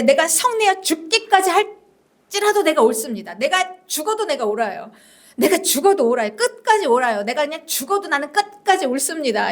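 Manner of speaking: insistent, stubborn self-justification; defiant retort. Acted. Jonah answering God's question, defiant insistence. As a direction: dig in and argue back. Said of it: "강하게 반박하면서".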